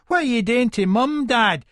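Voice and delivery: put-on high-pitched worried child; alarmed small son. Wee son asks dad about mum, alarmed. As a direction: raise the pitch for a distressed boy.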